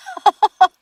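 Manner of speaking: a bright, high burst of laughter; high gleeful cackle of triumph. Acted. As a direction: laugh out, delighted. Wife hears husband's promise.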